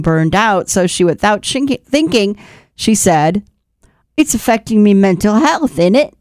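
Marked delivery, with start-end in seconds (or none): 4.2-6.1 put-on British accent. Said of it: "speaking in a British accent".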